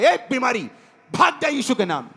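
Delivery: acted command driving out sickness; sharp call-out, then a falling command; rebuke in prayer. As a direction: order the illness away with authority. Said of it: "वो prayer में डांटता है".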